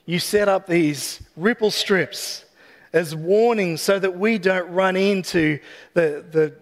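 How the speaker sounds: gentle, unhurried closing prayer. Real, not acted.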